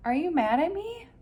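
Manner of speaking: high, worried call to a friend; anxious little Opal. A narrator's reading. Opal calls after her friend, high and worried. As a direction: blurt it out, scared she's in trouble. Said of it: "She called out to her friend".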